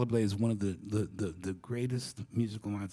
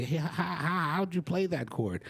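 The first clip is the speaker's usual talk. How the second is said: higher-pitched stammering ask; eager young student; 7 semitones higher than usual. Acted. Asking the older players about a chord, eager and stammering. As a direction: stumble eagerly over the question. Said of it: "you'd walk up to them and you'd say".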